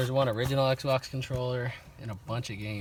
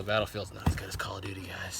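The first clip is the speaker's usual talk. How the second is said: whispered, low aside; whispering; 5 semitones lower, 6 dB quieter than usual. Real, not acted. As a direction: whisper it to the viewers. Aside to the camera.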